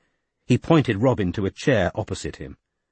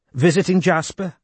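higher, gracious Welsh woman's voice; poised Welsh lady; 7 semitones higher than usual. A narrator's reading. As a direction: speak with calm authority, Welsh lilt. Della voiced in story.

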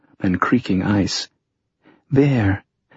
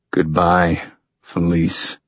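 low, through chattering teeth; 4 semitones lower, slower than usual. A narrator's reading. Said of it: "he said through chattering teeth".

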